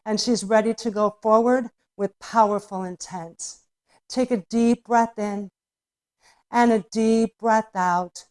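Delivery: soothing yoga teacher guiding the class; guided yoga cueing. Acted. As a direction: talk them gently through each pose.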